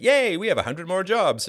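high, loud, gleeful crowd cheer; mock cheering. Everyone celebrating a hundred new government jobs, mock cheering. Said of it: "everyone's like".

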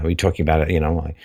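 ordinary talk, nothing marked

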